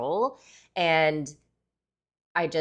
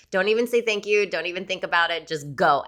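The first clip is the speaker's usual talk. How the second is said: urgent; 4 semitones higher, 5 dB louder than usual. Retold or imitated. Agent urging her to run.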